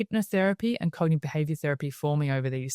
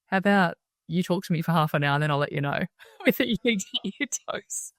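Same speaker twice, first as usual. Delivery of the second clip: laughing; 3 semitones higher than usual. Retold or imitated. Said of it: "she started laughing and she's like".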